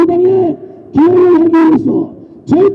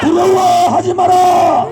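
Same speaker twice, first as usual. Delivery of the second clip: roaring rallying speech; 4 semitones higher, 4 dB quieter, slower than usual. Real, not acted. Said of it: "구호하겠는데 목소리를 다 내서 큰 목소리로".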